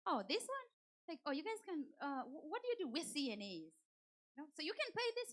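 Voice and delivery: high, mock-surprised cop voice; police officer writing the ticket, high and mock incredulous; imitating the police officer. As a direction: ham up the puzzled officer. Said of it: "and he's like".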